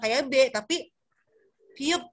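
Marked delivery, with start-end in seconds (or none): 1.8-2.0 piup with a puff of breath, close to P; aspirated Korean B. Shown as a demonstration. Teacher showing learners the Korean letter, breathy-released piup. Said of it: "ada hembusan nafasnya".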